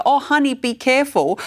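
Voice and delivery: lifted, sing-song caution; gentle warning. Retold or imitated. Parent sweetly cautioning a child in the playground. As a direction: coo a warning to a kid. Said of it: "nothing wrong with it".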